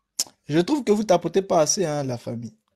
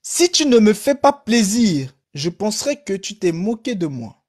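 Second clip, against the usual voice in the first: a bitter, stung reproach; embittered tone; 4 semitones higher than usual. Acted. Priest annoyed at the hesitant nun, bitter. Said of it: "d'un ton aigri".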